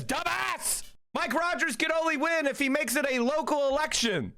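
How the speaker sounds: high, angry yelling at the opponents; furious high-pitched rant. Real, not acted. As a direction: yell it in open frustration. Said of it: "I'm yelling because".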